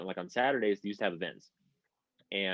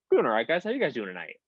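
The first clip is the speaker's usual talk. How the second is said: higher-pitched chummy greeting; mock nonchalant; 4 semitones higher, faster than usual. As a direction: imitate a friend acting as if nothing happened. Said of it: "Like, nothing fucking happened".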